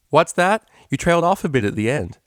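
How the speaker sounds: gleeful teasing. Acted. Vinyl teasing while tickling.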